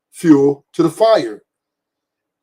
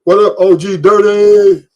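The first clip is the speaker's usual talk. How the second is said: loud greeting; 3 semitones higher, 7 dB louder than usual. Real, not acted. Greeting a friend loudly.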